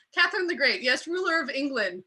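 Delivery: a mock-baffled aside that builds to a sudden halt; mock confusion. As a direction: play the baffled viewer catching a slip. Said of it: "I kept being like".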